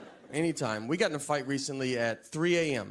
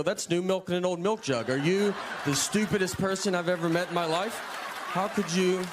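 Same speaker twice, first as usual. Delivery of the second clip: raised, incredulous mock rant; mock outrage at a guest; mock exasperation; 4 semitones higher than usual. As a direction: scold them like the dumbest person alive. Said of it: "I have to go".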